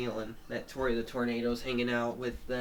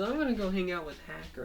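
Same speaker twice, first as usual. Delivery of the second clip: cartoon character voice; 6 semitones higher, faster than usual. Character announces leaving.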